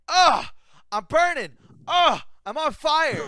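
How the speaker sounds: loud, high hammed-up wails; mock dying screams. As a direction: cry out as if on fire, imitating her. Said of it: "It sounded like she was dying".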